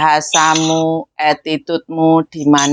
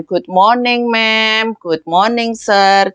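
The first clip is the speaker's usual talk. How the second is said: friendly greeting; 4 semitones higher, much slower than usual. Shown as a demonstration. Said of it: "nadanya yang luwes".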